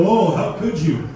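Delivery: slow, drawn-out mock whine. Comic mocks the crowd with a mild whiny scold. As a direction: stretch it out like a pearl-clutcher.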